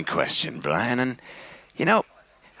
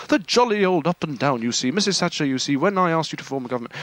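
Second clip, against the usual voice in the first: impression of a radio host; 3 semitones higher than usual. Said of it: "You go for the".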